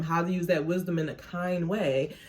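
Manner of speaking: ordinary talk, nothing marked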